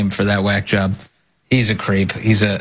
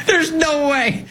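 laughing disbelief; slower than usual. Real, not acted.

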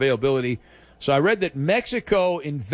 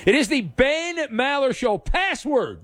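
slow, higher game-show announcer; 8 semitones higher, slower than usual. Acted. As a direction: hype up the segment like a game host.

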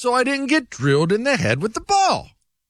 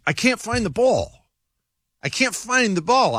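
higher-pitched retold complaint; retold plea; 3 semitones higher than usual. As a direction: helplessly call for guidance, replaying it. Retold plea for guidance mid-game.

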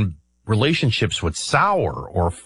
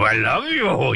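Pepe Le Pew; 3 semitones higher, slower than usual. Retold or imitated. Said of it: "looking like Pepe Le Pew and I go".

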